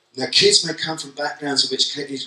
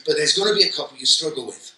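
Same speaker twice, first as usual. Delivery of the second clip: put-on mild Mancunian accent; 4 semitones higher than usual. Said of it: "this is me doing a Mancunian accent".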